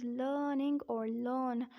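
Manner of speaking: "learning" and "learn" with long vowel, no R; silent R. Shown as a demonstration. Teacher modelling "learning or learn" for learners, R kept silent. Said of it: "R has to be kept silent".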